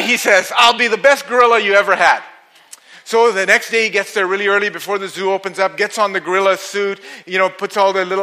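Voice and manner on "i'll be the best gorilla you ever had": eager boast. Acted. Guy boasting to zookeeper.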